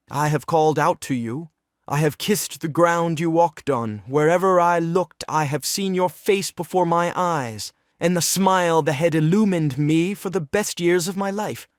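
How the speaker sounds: impassioned declaration. Acted. Treplev confesses his love to Nina, impassioned. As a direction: pour out your devotion, building in pitch.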